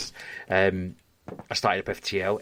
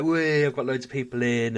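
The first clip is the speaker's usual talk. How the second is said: retold excited "whee", a little higher; mildly thrilled, recalling the moment; excited glee; 4 semitones higher than usual. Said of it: "it was all, all really exciting".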